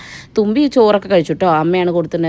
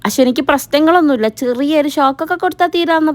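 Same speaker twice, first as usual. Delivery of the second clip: laughing; 8 semitones higher, 3 dB louder than usual. Real, not acted. Teasing joke about the child.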